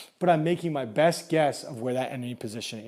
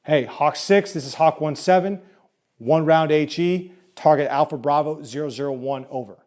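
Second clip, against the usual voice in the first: calm radio call for fire; 4 dB louder than usual. Shown as a demonstration. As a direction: read it out over the net. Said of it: "they're gonna say".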